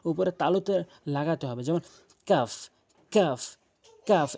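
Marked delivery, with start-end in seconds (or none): 2.3-4.4 কাফ with tongue a bit ahead of its root; forward k sound. Shown as a demonstration. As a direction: say each কাফ separately, tongue further forward on the palate. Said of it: "এভাবে উচ্চারণ করবেন". (কাফ জিহ্বার গোড়ার একটু আগে থেকে)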